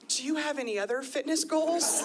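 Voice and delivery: mock-kind trainer checking in; lightly voiced gentle trainer. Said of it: "in a kind voice".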